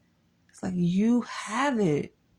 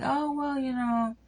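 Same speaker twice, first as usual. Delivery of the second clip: mimicked complaining man; 5 semitones higher than usual. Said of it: "'Cause he goes like".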